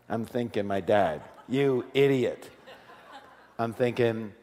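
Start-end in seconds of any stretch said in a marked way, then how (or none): 1.5-2.5 slow, chuckling mock of dad; dad's insult remembered with a laugh. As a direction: drawl it through a laugh. Recalling father's verdict.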